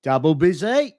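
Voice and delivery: Irish speaker's own attempt at a Cockney "Double busy". Shown as a demonstration. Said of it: "I could try it".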